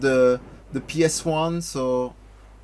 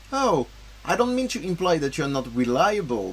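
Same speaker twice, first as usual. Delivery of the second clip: lightly voiced young heroes, a bit higher; game dialogue voices; 4 semitones higher than usual. Streamer reading game dialogue to his chat, lightly voiced. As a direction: read the cutscene lines with a little character.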